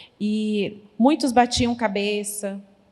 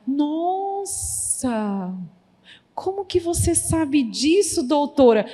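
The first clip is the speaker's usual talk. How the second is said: impressed mother; 5 semitones higher, slower than usual. Retold or imitated. Mother amazed at the advice.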